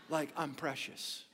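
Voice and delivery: soft laughing between the words; chuckling while telling about his wife; laughing aside. Real, not acted. Joking about wife's squeeze.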